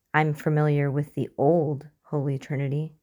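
a voice that wavers a little; a touch of tremble under defiance; slight waver. Acted. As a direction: hold back fear, barely keeping it steady. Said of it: "a slight waver in her voice".

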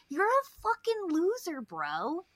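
high, sneering jab; mock insult. Telling Spud off, a high mocking sneer. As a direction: taunt him like a bully. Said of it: "And I'm like".

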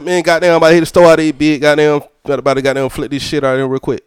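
quick Georgia slang, words cut short; loose, rapid-fire Georgia accent. Shown as a demonstration. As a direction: run it together in a Georgia accent. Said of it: "my accent comes right back out".

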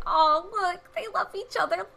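high-pitched "aww" cooing over a cute couple; mock-swooning at two lovebirds; adoring gush. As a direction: gush sweetly, voice lifted high.

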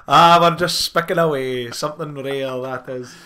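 chatty mock-Scottish patter; put-on Scottish accent. Host continuing the introduction joke, put-on Scottish accent. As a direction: keep the broad Scottish bit going. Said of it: "in the most Scottish accent".

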